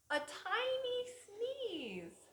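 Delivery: slow breathy whisper on tiny sneeze. Acted. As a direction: hush it like a secret. Teacher dramatizes tiny sneeze.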